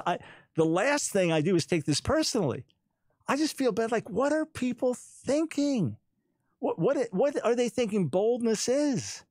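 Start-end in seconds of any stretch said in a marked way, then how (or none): 3.3-9.2 high, bemused disbelief; incredulous but smiling, unbothered; smile in voice. Real, not acted. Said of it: "hear the smile in my voice".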